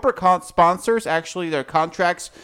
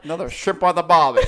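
laughing mock Australian; 4 dB louder, much faster than usual. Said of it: "He's in rare form tonight".

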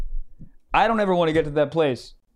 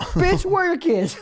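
laughing mock outrage; 12 semitones higher, slower than usual.

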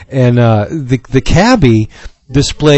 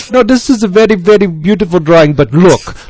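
higher, lightly put-on cab driver voice; cabbie impression; 3 semitones higher than usual. Cabbie praising Jason's drawing, mild imitation. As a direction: imitate the cabbie admiring the art. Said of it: "this is the way the man talked".

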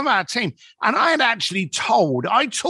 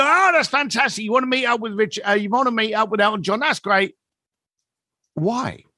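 upbeat enthusiasm then dropped why; 5 semitones higher than usual. Shown as a demonstration. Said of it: "It's a classic Chris Voss, midnight D J voice".

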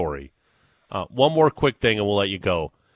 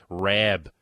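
"Rob" said as a flat-A "Rab", Western New York style; mimicked Western New York accent; 3 semitones lower than usual. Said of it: "and she'd be like".

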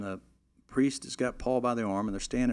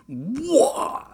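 high loud "Wah!" retch; imitating the groom throwing up on the altar; mock retching yell; 6 dB louder than usual. Imitating vomiting sound.

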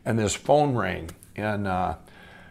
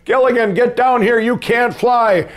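high, loud mock yell, last words drawn out; Skipper yelling; 11 semitones higher, 5 dB louder than usual. Skipper calls up to flying Gilligan, high imitated shout. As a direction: imitate the Skipper calling up in alarm. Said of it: "and the skipper goes".

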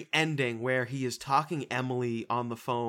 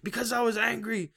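higher, whiny breakdown; mocking Jake; 9 semitones higher than usual. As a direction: whine it out, rising to a plea. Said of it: "And then he's like".

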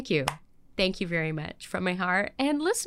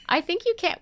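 laughing; 9 semitones higher than usual. Real, not acted. Repeats reassurance, then laughs.

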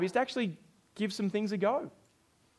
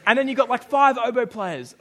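amused disbelief; 5 semitones higher, 9 dB louder than usual. Real, not acted. Joking incredulity.

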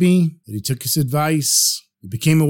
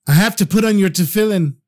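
tearful begging; 3 semitones higher, faster than usual. Acted. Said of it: "And he cried".

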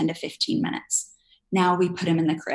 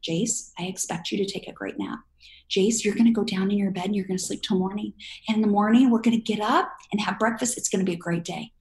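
calm firm reassurance. Shown as a demonstration. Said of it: "What's your expectation?".

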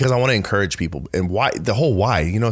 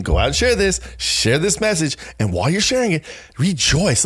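eager paraphrase; 6 semitones higher than usual. Acted. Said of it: "So here he's saying".

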